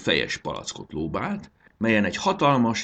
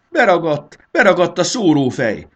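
high, loud panicked shout; desperate cry; 11 semitones higher, 11 dB louder than usual. A narrator's reading. Marci tells Fanny the nozzle is stuck, desperate. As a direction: cry out in despair. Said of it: "válaszolta Marci kétségbe esetten".

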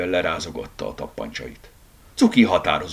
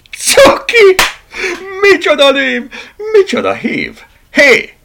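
high, loud mocking hoots; derisive, gleeful yelling; shouting; 11 dB louder, slower than usual. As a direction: crow it at full voice. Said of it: "kiáltotta".

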